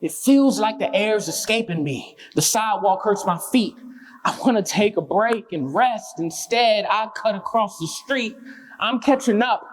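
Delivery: halting spoken-word lines with gaps between phrases; spoken-word poem. Acted. Runner narrates chasing someone down the street, halting spoken-word delivery. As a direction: recite a tiring chase in short, separated bursts.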